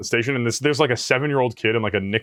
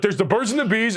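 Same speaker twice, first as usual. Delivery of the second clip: higher, hammed-up dad lecture; a hint of a dad giving the talk; mock lecturing dad; 7 semitones higher than usual. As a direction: preach it like a know-it-all dad. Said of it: "he's like".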